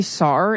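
"sar" drawn out with a final R; added R. Shown as a demonstration. Partner asking about Boston speech, "sar" with added R. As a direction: stretch "sar", saw ending in R. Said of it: "We add R's to words".

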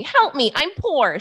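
a touch of hammed-up film quote; slow, mildly comic begging line; movie character voice. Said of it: "do the voice again".

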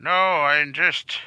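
put-on old man voice. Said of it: "Stop talking like an old man".

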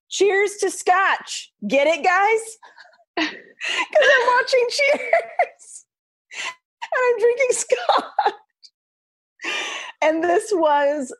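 high, laughing, cringing at herself. Real, not acted. Laughing at own old caption.

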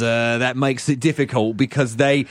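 slow, character sweep voice; chimney sweep voice. Pretend. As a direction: play the silly sweep.

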